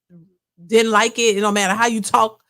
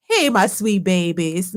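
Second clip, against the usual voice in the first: lightly voiced Monique, lower and slow; slow Monique greeting; 4 semitones lower, slower than usual. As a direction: draw out the greeting like Monique on her live. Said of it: "she opened up with".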